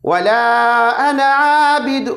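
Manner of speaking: अना आबिद with the alif drawn out; mock wrong reading. Shown as a demonstration. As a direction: read it the wrong way on purpose. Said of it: "नहीं, नहीं". (गलत तरीके से अलिफ़ खींचकर)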